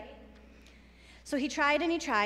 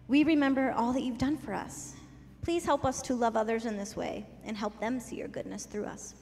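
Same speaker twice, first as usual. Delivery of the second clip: prayer. Acted. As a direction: pray gently for the kids. Leads children in prayer.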